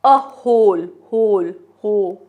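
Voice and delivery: hole drawn out slowly, then cut to हो; teacherly breakdown of hole to हो; sounding out onset. Shown as a demonstration. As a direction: stretch होल to show its breath h. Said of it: "ह की sound आ रही है".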